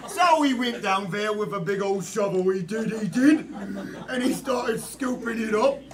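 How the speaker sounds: put-on cockney British accent. Improv player narrating a rescue, hammed-up British accent. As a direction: tell it like a comic British storyteller. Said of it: "British, French".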